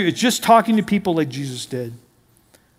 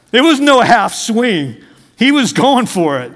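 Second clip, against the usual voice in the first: slow emphasis; 3 semitones higher, 3 dB louder, slower than usual. Acted. Preacher emphatic storytelling.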